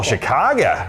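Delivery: a quick try at a local Chicago accent on the city's name. Shown as a demonstration. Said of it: "I hope that was a close Chicago accent".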